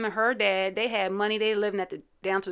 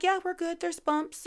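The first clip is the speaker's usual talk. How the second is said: vague brush-off; 10 semitones higher than usual. Retold or imitated. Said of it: "She's just like".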